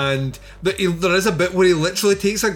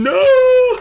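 high shouted no; mock scream; 10 dB louder than usual. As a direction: yelp it out like the little man. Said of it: "there's a wee man going".

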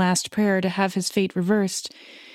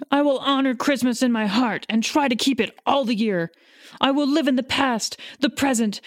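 anguished vow; 3 semitones higher than usual. Acted. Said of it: "In his agony".

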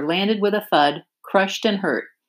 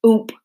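grunt; 4 semitones higher, 4 dB louder than usual. Acted. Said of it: "he grunted".

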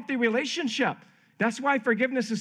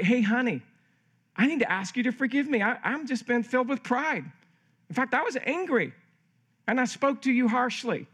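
owning up, higher-pitched and deliberate; clear confession; 4 semitones higher than usual. Acted. Husband confessing to his wife, owning it clearly. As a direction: ask forgiveness and take all the blame. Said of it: "was a more clear confession".

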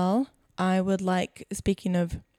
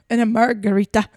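attempted German accent; 5 dB louder than usual. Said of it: "now German".

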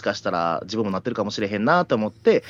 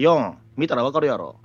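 rude customer. Acted. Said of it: "横柄な態度".

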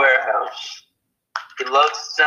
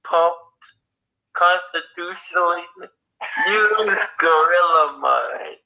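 energy drink ad; 2 semitones higher than usual. Acted. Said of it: "now time for our sponsored segment".

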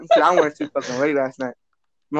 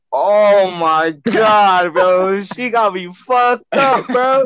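drawn-out outrage; 3 semitones higher, 4 dB louder, much slower than usual. Real, not acted. Outraged at sister's request.

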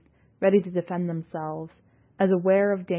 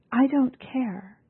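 weary defiance; 6 semitones higher, slower than usual. A narrator's reading. Yalnis answers Ekarit.

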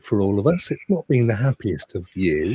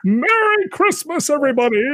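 jolly ho ho ho; 4 dB louder than usual. Pretend. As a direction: boom it out like Santa. Festive sign-off sound effect.

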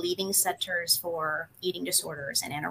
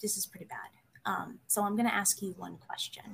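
whispered, much softer counselor warning; hushed verdict; 11 dB quieter, faster than usual. Retold or imitated. Imitating the counselor's serious warning to the student, whispered. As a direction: drop to a grave whisper.

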